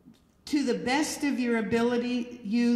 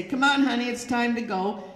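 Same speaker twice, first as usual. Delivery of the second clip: a bit louder, brisk fatherly call; imitated robust voice; 2 semitones higher, 4 dB louder, faster than usual. Father calling his little girl to leave, in a robust voice. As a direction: imitate a dad's hearty, robust voice. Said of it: "louder, more robust voices".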